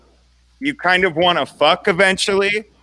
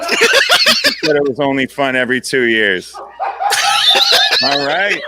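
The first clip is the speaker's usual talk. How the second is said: laughing; 4 dB louder, slower than usual. Real, not acted. Laughing at closing joke.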